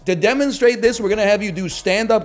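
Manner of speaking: high, loud, lightly hammed-up teacher voice; teacher addressing the health class, high and loud; mock health teacher. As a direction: lecture the class like a prim sixth grade teacher.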